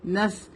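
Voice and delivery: نس with a thin plain s; light seen. Shown as a demonstration. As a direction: show نس with light س instead of heavy ص. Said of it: "سین کی طرح ہو جائے گا". (نس میں باریک سین)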